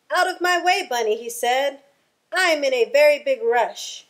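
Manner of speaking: high, hurried rushing voice; hurried fox. Acted. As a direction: brush past, no time to stop. Fox hurrying, brushing Bunny off.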